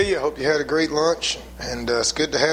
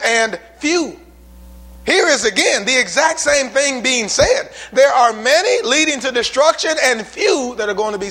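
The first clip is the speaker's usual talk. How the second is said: fiery preaching; 3 semitones higher than usual. Acted. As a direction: preach it with rising fire. Preacher building to full force.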